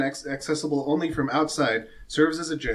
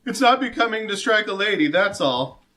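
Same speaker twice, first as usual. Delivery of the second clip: pompous knight; 7 semitones higher than usual. Acted. GM voices Deacon.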